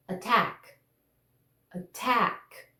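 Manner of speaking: "Attack" with a firm T on the stressed second syllable; crisp T in "Attack", stress at the end; unflapped T. Shown as a demonstration. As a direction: model "Attack" with a true stop T. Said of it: "Não posso falar attack".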